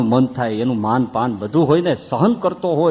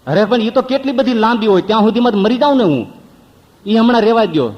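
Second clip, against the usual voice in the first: panicked plea; 6 semitones higher, faster than usual. Retold or imitated. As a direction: gabble it out in pain. Man panicking over long belly.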